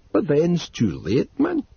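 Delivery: Northumbrian, urgent. A narrator's reading. Narrator voices Dodd.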